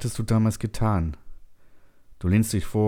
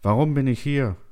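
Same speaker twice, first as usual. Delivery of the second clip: high, pleading question; distressed cry; 7 semitones higher, 3 dB louder than usual. A narrator's reading. Confused settler questions silent computer, distressed cry. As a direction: cry out for a reason.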